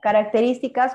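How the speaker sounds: Características, firm classroom call-out; called out as heading. Shown as a demonstration. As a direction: announce Características as the next heading. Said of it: "colocas racional".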